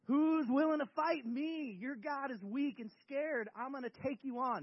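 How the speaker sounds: slow, drawn-out challenge with mild swagger; a touch of slow bravado; swaggering giant. Acted. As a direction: taunt them like a cocky giant. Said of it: "giant with all this swagger".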